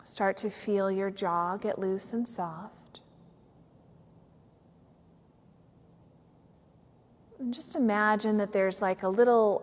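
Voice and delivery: unhurried yoga nidra guidance with long pauses; measured meditation voice, letting each phrase settle; guided meditation. Real, not acted. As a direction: guide them gently into stillness.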